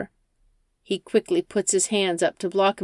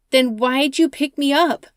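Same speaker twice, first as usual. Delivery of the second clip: higher, louder, suspicious demand; suspicious Rachel; 7 semitones higher, 5 dB louder than usual. Acted. Rachel, suspicious of the driver, demands answers. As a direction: press him on why he stopped.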